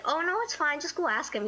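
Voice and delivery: high, dismissive reassurance; breezy coaxing. Retold or imitated. Friend egging her on to ask cousin, breezy. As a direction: wave the worry away, starting high.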